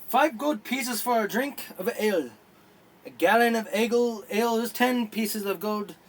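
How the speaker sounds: brisk, lifted menu announcer voice; a hint of a cheery tavern barker; tavern menu read as a voice.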